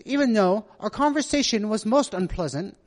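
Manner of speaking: amateur attempt at a British accent. Preacher imagines a texter speaking, in a tentative British accent. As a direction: try out a polite British accent. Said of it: "see if I can do my British accent".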